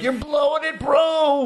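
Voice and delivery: whisper-warn then blurt it out; Tyrion's hissed warning. Retold or imitated. Tyrion nudging Jon as he fumbles, high urgent aside. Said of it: "Tyrion's behind him like".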